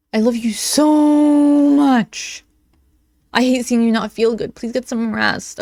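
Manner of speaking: lightly mocking lovey-dovey reading; annoying gushing. Re-reading the girlfriend's text to be annoying, mock gushing. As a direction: overdo the affection, leaning long on SO. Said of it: "I just want to be annoying again".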